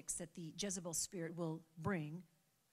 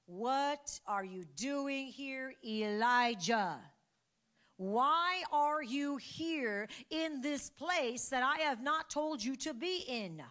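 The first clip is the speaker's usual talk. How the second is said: "What are you doing here, Elijah" drawn out very slow and gentle; still small voice; 7 semitones higher, 8 dB louder, slower than usual. Retold or imitated. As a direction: ask it slowly, like a patient whisper of God. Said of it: "a still small voice".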